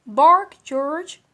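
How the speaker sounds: high, loud urgent order; insistent command. Acted. Mother commanding again, insistent.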